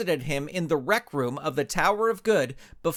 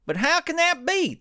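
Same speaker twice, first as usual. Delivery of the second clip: outraged shout of disbelief; 4 dB louder than usual. Acted. Hero shouts as he jumps up from the couch. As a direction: cry it out much higher and louder. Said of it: "the mighty ranch hand shouted".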